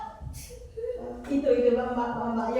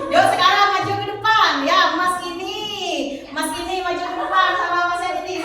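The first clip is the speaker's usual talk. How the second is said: kindergarten teacher voice; 3 semitones higher, 5 dB louder than usual. Real, not acted. Teacher coaxing pupils forward.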